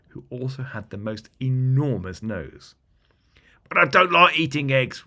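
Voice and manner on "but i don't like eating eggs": whispered, high little goblin complaint; a small goblin protesting under his breath. Acted. Littlest goblin whispering back to the big one. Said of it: "replied the little one".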